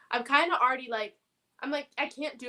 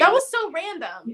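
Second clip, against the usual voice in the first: said through a laugh, pitched up and louder; 7 semitones higher, 8 dB louder than usual. Real, not acted. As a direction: laugh it out, amazed at how random it was. Laughing at the random plot twist.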